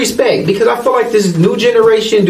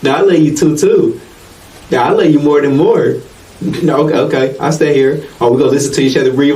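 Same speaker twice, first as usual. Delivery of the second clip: giggly late night call; 4 semitones lower than usual. Retold or imitated. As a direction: lower sweet lovey-dovey talk. Acted lovey phone call.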